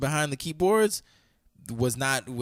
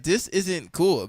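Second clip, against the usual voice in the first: drawn out, slow and a little louder; mock stern; 6 semitones higher, 3 dB louder, much slower than usual. To the texting partner, slow mock-stern protest. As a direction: stretch this isn't cool out slowly, half-joking. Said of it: "I was like".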